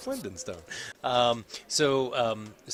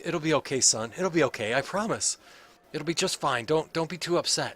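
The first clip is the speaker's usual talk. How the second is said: a higher, lightly voiced innkeeper, kind and welcoming; innkeeper woman; 4 semitones higher, 4 dB louder than usual. Innkeeper welcoming the party to stay, lightly voiced and kind. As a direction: gently reassure the guests.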